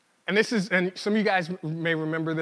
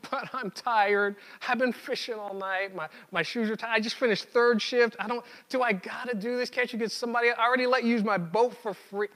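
whining, put-upon complaint; whiny voice; 5 semitones higher than usual. Retold or imitated. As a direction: whine like a tired fisherman. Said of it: "In my head, it was a whiny voice".

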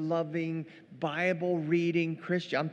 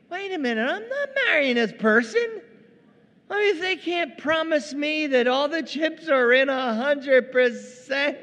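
much higher, louder mock indignation; outraged fiancé; 8 semitones higher, 7 dB louder than usual. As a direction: balk like a jilted partner, voice shooting up. Imagined groom balking at half-commitment.

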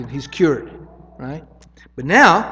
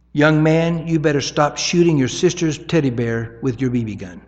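rebuke. Shown as a demonstration. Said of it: "rebuke looks like this".

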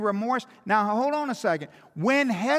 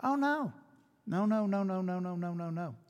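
no said again and again, dropping softer; fading denial; 2 semitones lower, 7 dB quieter than usual. Real, not acted. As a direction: denial trailing off to near nothing.

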